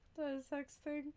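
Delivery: small, high, curious voice; Chethany-style response. Acted. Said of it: "feel like a Chethany response".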